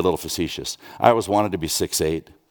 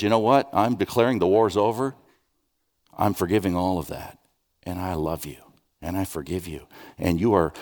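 voicing God. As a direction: speak as God, gently declaring peace. Pastor voices God forgiving rebels.

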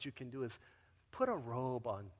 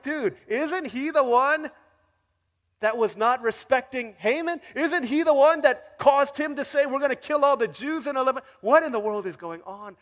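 much higher and louder; astonished crowd; 10 semitones higher, 15 dB louder than usual. Retold or imitated. People of Persia amazed at Mordecai honoured, astonished. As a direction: gasp in disbelief together. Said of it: "the people are like".

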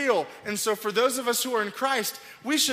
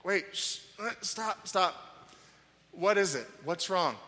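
put-on softer, hushed soothing to a little boy; calming a child; 4 dB quieter than usual. Father holding his son's face, calming him softly. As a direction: settle a crying kid down gently. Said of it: "I'll go".

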